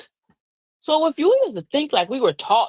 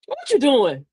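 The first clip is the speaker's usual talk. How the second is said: falling, demanding question; pointed asking. Shown as a demonstration. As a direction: ask it with an edge. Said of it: "two different energies".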